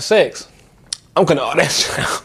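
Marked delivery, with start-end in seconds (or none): 1.2-2.2 laughing whisper. Real, not acted. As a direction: say it under your breath with a laugh. Secretive aside about sex.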